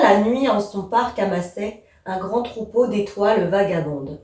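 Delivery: measured poem reading, "amassait" running on into "un grand troupeau"; unhurried verse recitation, every syllable placed; prepared expressive reading. Shown as a demonstration. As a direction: recite the verse carefully, sounding the e of "étoiles". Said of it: "voilà ce qu'il faudrait dire".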